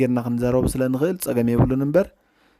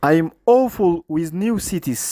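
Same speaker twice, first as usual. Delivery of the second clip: very slow, each word drawn out; slow modelled quote; 4 semitones higher, much slower than usual. Shown as a demonstration. Teacher models the learner's quote for students, very slow. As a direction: spell it out slowly for the class. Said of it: "ኢላቶ".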